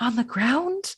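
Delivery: very quiet, hushed, soft, under the breath. Retelling another player's line, imitating someone speaking very quietly. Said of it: "She says very quietly".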